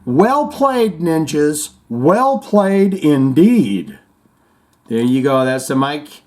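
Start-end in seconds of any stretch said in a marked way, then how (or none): 0.0-4.0 mock salute.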